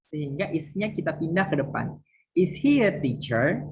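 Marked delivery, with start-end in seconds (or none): 2.3-3.6 rising question tune on Is he a teacher, spoken slowly; teacher models the question rise for students; question intonation. Shown as a demonstration. Teacher showing students how a question sounds, rising tune. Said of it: "Biasanya intonasi juga membantu".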